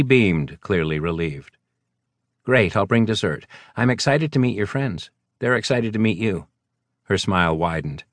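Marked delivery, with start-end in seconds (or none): 2.4-6.5 a woman brushing off his apology; voiced woman. Carolyn's lines in a higher voice.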